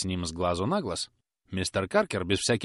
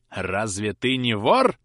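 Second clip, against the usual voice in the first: slow menacing question; 5 dB louder, much slower than usual. Acted. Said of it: "спросил мистер Каркер".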